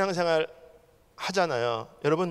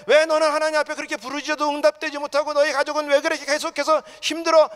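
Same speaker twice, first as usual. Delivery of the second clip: high, insistent volley of reproach; scolding bystanders; 8 semitones higher, 6 dB louder than usual. Acted. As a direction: voice the people around nagging and doubting. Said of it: "주위에서". (높은 목소리로 다그치는 핀잔)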